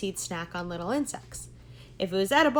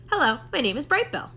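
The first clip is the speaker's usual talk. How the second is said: eager little gosling; 5 semitones higher, 4 dB louder, faster than usual. Acted. Gosling greets a neighbor.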